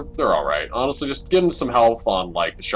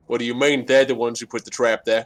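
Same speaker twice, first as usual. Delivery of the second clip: high, loud indignant protest; indignant character voice; 5 semitones higher, 5 dB louder than usual. Acted. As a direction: defend yourself, offended. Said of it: "looks over at you and says".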